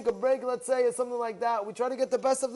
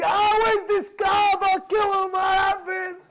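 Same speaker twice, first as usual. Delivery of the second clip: hammed-up outrage, yelled high and slow; slow shouted rant over a hundred-dollar ticket; mock furious shout; 7 semitones higher, 3 dB louder, slower than usual. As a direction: play the man gone crazy over a lost ticket. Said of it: "we go crazy".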